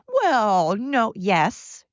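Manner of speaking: mocking a naysayer's "well, no"; mock protest. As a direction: imitate someone whining an objection. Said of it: "So don't sit there and".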